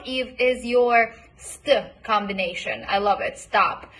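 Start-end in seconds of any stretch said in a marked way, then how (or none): 3.4-3.9 "Stop" with the t softened toward a d; st blend. Shown as a demonstration. Coach modelling "Stop" for a student, t softened toward d. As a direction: say "Stop" with a light d-like t. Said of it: "This is how I say it".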